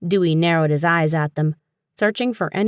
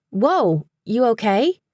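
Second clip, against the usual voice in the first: startled; 6 semitones higher, slower than usual. A narrator's reading. Paige startled, leaping up.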